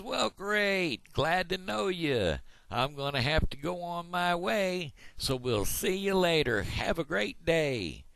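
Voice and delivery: very high, drawn-out cartoon frog; big-mouth frog. Big-mouth frog says goodbye to duck, high and stretched. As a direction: send the frog's voice way up. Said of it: "I'm the big mouth frog".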